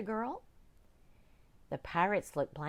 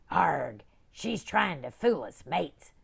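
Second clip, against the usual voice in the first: pirate growl; 6 dB louder, slower than usual. Acted. Pirate captain to crew.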